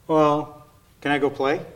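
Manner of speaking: lightly voiced kid asking; a mild whiny child; pleading child. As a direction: ask like an eager kid. Child asking parent to play.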